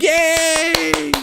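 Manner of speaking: mock giddy hero; squealing childish yay. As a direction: squeak with goofy delight. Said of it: "And you're like".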